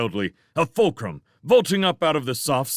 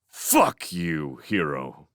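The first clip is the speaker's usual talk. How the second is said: bitter thought; 6 semitones lower, much slower than usual. A narrator's reading. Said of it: "he thought".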